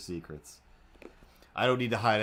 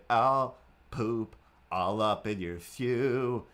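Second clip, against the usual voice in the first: cat threat; much slower than usual. Pretend. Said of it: "and be like".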